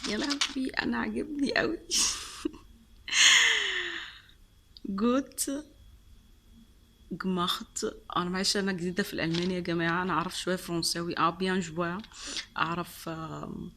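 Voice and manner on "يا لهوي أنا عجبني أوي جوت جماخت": high-pitched squeal of delight; gush, bubbling over into a laugh; thrilled gushing. Real, not acted. Vlogger loving the candy she received, thrilled gushing.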